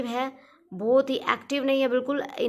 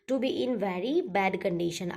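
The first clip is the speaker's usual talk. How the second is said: dictating slowly; 2 semitones lower, much slower than usual. Shown as a demonstration. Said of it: "meaning repeated slowly".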